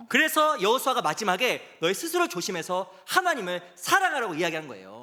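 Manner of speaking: loud, high-pitched sermon delivery; impassioned preaching. Real, not acted. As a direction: preach it at full force to rouse the congregation. Preacher at full force.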